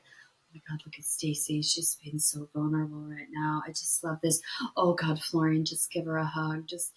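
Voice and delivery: soft, hushed mock tenderness; tender. Counselor watching couple's vulnerable moment, soft tender murmur. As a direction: say it softly, moved by what you watch.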